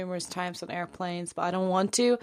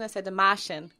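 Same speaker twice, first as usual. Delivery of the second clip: "Martian" as "Mah-shun" in a Boston accent; Boston accent, r dropped: "Mah-shun". Shown as a demonstration. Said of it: "'cause Matt Damon from Boston".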